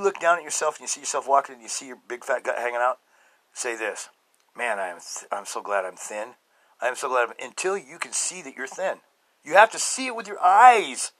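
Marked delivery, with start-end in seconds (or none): 4.6-7.3 positive self-talk. Shown as a demonstration. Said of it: "talk like this".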